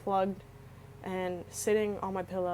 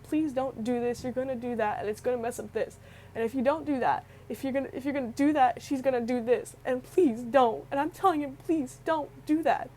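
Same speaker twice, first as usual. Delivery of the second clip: urgent, rising pleading plea; retold desperate begging; 4 semitones higher, 4 dB louder than usual. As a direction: beg him not to do it.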